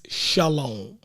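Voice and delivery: SHALOM said slowly as "shah-lohm", second syllable drawn out; careful pronunciation. Shown as a demonstration. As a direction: sound out SHALOM slowly, with a full "ah" first. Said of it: "How you say it?".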